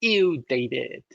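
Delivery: slow, drawn-out ew, a light hint of the sitcom voice; slow Schitt's Creek ew. Host repeating the sitcom catchphrase slowly, light mock disgust. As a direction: stretch the ew lazily, mock disgusted. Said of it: "a Schitt's Creek reference".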